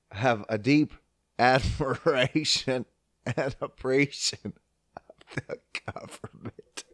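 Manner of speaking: slow, sarcastic praise fading off; deadpan fake admiration; mock sincerity. Real, not acted. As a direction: pretend to mean it, then trail away. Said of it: "I can't even say it with a straight face".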